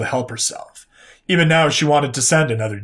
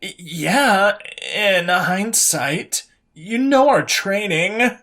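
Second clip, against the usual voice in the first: shooting back; 6 semitones higher, much slower than usual. A narrator's reading. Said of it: "Liliandra shot back".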